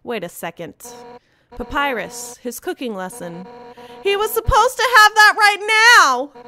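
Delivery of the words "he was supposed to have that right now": loud, high, fired-up warrior yelling; wild hammed-up enthusiasm with a cackle; character voice. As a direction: shout it like a battle cry about cooking.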